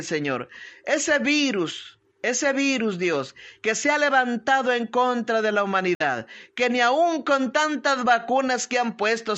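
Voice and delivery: earnest spoken prayer to God; pleading healing prayer; fervent prayer. Acted. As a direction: pray over the sick with conviction. Pastor prays aloud for healing.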